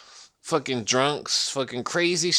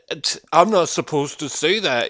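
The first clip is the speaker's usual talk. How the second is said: ordinary delivery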